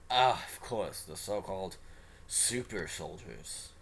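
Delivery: slow, drawn-out sneer on "Super Soldiers"; lightly voiced arrogant scientist; arrogant doctor. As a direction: lay on the doctor's disdain, slowly. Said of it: "with the obvious arrogance".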